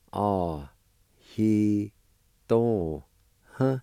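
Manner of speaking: "Ah, he, do, huh" each syllable said apart, with pauses; Cherokee syllables. Shown as a demonstration. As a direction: sound out "Ah, he, do, huh" one syllable at a time. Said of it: "And it's pronounced like this".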